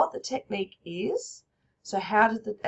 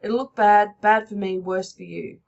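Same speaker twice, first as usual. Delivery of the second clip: threatening; 7 dB louder than usual. Acted. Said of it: "truncated sentences".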